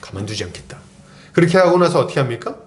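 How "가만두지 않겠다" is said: 속으로 조용히 이를 가는 듯; 낮고 조용하게 분노를 삼키며; seething vow. Retold or imitated. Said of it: "속을 막 부글부글 끓죠". (조용히 끓어오르는 분노)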